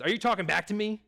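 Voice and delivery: high, loud and indignant; angry old man shout. Retold or imitated. Old bowler yelling at the seventeen-year-old, loud and indignant. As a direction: bark it at a teenage clerk. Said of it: "he starts yelling".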